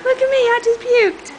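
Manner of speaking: a hint of a baby's voice; voicing the baby. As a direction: speak for the baby, proudly. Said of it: "you wanna say?".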